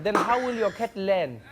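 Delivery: lightly voiced lecturing operator; South African operator. Operator to cat owner, mildly reproachful. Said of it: "South African operators doing nine one one".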